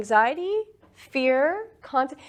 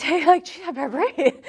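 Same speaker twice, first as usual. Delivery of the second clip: mock alarmed student; 6 semitones higher, 4 dB louder than usual. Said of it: "they're like".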